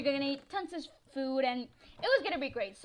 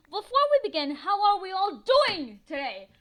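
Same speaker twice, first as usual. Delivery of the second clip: cheery check-in; 5 semitones higher, 9 dB louder than usual. Real, not acted. Vlogger checks on viewers in a high, loud voice. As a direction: ask the viewers brightly how they are.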